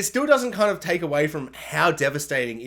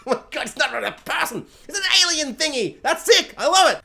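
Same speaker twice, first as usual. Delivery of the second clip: rising higher, then louder in delight; retold thrill; 10 semitones higher, 3 dB louder than usual. A fan recalling the alien reveal, building higher and louder. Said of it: "I'm like".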